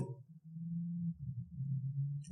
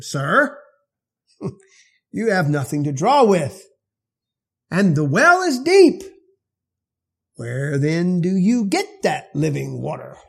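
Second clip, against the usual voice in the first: a touch of scoffing doubt; lightly mock the stranger's offer; mild sarcasm. Samaritan woman at the well, mildly sarcastic to Jesus. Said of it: "reacts with a bit of sarcasm".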